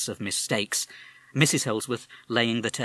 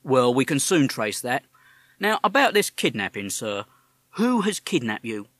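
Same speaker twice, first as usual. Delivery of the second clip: policeman; 3 semitones higher, 6 dB louder than usual. Acted. Policeman questions caller.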